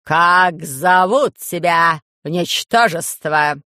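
slow, loud, lordly priest questioning a prisoner; menacing priest. Acted. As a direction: drag out each word with contempt. Priest interrogates the sage.

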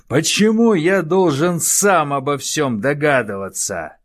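very high, loud enraged shouting; furious yell. Acted. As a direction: rage at the advisor. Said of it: "вопил он". (яростный крик)

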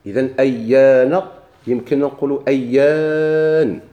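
أيان drawn out slowly with a sukun at the end; slow demonstration. Shown as a demonstration. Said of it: "غيكون عندنا التقاء الساكنين". (نطق بطيء لكلمة أيان بالسكون)

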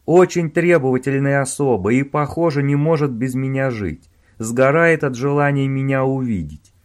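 loud, exasperated rant; heated scolding. Acted. Owen warning Robin about Sheila, heated and loud. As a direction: scold him, worked up.

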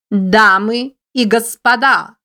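high squeaky little voice; squeaky rabbit voice. A narrator's reading. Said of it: "писклявый голосок которого был слабо слышен".

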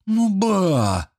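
put-on high drawn-out child's whine. Boy whines at granny, drawn out. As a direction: stretch it out like a sulky kid. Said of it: "протянул парнишка".

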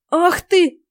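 high, loud angry outburst; furious old woman. A narrator's reading. Old witch rages at the heroine, loud. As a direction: flare up in rage. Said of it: "обозлённая старуха".

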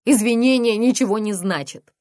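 loud screaming rebuke. Acted. Mother screaming at her apologizing daughter. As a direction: bellow it at her. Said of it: "завопила она".

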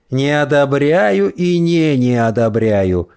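slow prissy mimicry; mock her with a mincing drawl. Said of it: "жеманным голосом передразнивает он".

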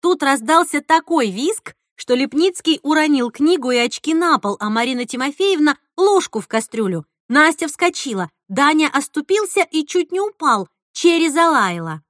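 ordinary delivery

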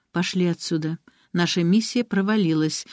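plain reading voice

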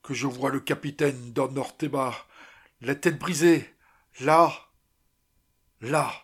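exclaimed, last words rising in force; crying out. A narrator's reading. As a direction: exclaim it, punching the pointing words. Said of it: "s'écria Martinez". (exclamation, voix qui monte)

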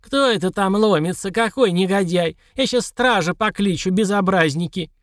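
put-on crotchety old codger yelling through door; old prospector. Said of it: "старческий голос, грозно спросивший".

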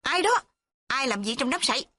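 high calling shout into the reeds. A narrator's reading. Girl shouting into the reeds to find who's there. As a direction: call out sharply, impatient. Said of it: "cô la lớn".

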